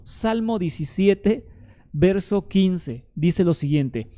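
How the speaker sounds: slowed right down, each word weighed; measured, unhurried announcing of the verse; slow deliberate citation. Shown as a demonstration. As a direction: read the verse reference out slowly for emphasis. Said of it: "Escucha esto".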